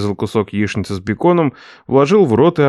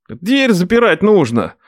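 higher, slow protesting nephew; 8 semitones higher, slower than usual. Acted. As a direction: defend himself, higher.

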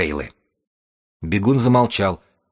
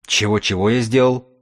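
scornful drawl; 3 semitones higher than usual. Acted. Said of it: "презрительно протянул бегун".

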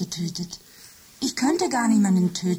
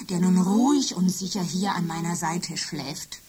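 whisper. Acted. Machine confides about Michael.

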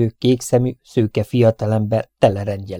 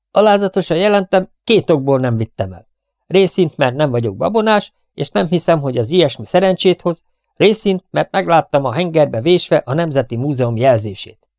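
dutiful soldier; 5 semitones higher, 3 dB louder than usual. Acted. Soldier reporting to captain.

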